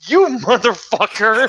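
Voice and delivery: high-pitched retold outburst; re-enacted indignant cursing; going off. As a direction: exclaim it in mock outrage, pitch up. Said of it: "I just went off".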